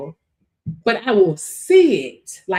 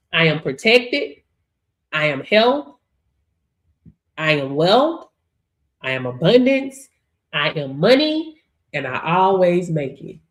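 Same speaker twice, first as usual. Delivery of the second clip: slow, measured affirmations, low starts lifting at the ends; low, deliberate declarations with rising endings; spoken affirmations; 6 semitones lower than usual. Shown as a demonstration. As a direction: recite each affirmation deliberately for others to repeat. Models positive affirmations to repeat.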